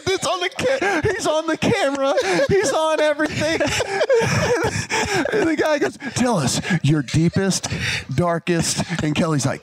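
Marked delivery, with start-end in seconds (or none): 0.1-3.6 much higher, words squeezed out through laughter; laughing through words. Real, not acted. Teller laughing hard while retelling the snakes moment. 3.7-5.3 high-pitched breathless cackle; high wheezing laugh. Real, not acted. Teller laughing again at the memory. 5.3-8.8 much higher, words squeezed out through laughter; laughing through words. Real, not acted. Teller laughing hard while retelling the snakes moment.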